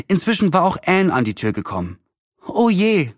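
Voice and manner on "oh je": higher, quick oh dear; a girl's dismay at the news; dismayed cry. A narrator's reading. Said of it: "rief sie".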